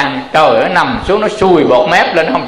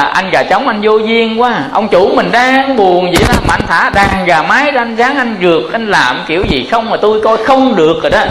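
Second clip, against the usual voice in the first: higher-pitched scolding dog; dog voice, raised pitch, annoyed; 5 semitones higher than usual. Acted. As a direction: tell off the rooster as the irritated dog. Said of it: "nó sủa quấu quấu, nó nói là".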